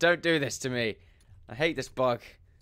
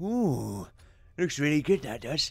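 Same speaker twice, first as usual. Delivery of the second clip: deliberately creepy, put-on voice. Admiring a cozy half-built house: put-on creepy voice. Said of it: "enough of my creepy voice".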